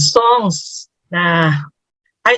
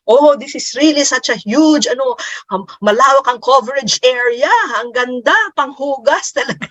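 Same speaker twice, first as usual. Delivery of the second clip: delighted; 4 semitones higher than usual. Retold or imitated. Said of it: "tuwang-tuwa na sabi niya".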